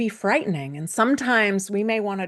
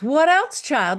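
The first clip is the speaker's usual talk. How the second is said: Baba Yaga; 8 semitones higher, 6 dB louder than usual. Acted. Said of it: "And Baba Yaga says".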